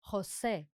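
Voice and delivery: "José" begun with a strong h sound. Shown as a demonstration. Teacher showing learners the Spanish J, "José" with a strong H. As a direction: say "José" as "ho-SEH", the J a strong English H. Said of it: "J sounds like a strong H".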